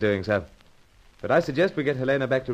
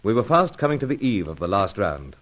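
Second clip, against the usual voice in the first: measured radio narration; story narration. A narrator's reading. The narrator narrates the story to the listeners. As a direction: tell the listeners where things stand. Narrator recounts between scenes.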